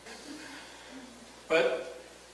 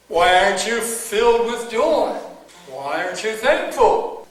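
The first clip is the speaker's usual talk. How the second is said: God's rebuke; 4 semitones higher, 4 dB louder than usual. Retold or imitated. God rebuking his ingratitude.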